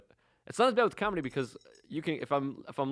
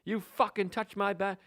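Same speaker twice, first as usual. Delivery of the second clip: slow, high, strained mock rant; retold screaming; 5 semitones higher than usual. Imitating a man berating a woman over his bag, mock scream. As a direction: imitate screaming at held-back volume. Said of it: "he's just screaming at this old woman".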